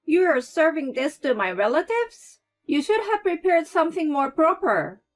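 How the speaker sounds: loud, haughty reprimand; scolding mother-in-law. A narrator's reading. Mother-in-law scolds Claire over the food, loud and haughty. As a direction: put her in her place.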